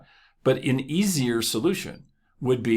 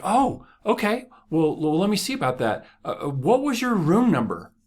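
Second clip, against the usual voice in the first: mock polite maid; 10 semitones higher than usual. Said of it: "she was like".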